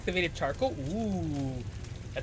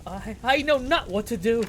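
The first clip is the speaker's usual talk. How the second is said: archaic game character; 5 semitones higher than usual. Acted.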